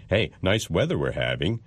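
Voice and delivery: sarcastic breezy remark. Shown as a demonstration. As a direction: praise it while plainly meaning the opposite. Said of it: "everyone knows you're being sarcastic".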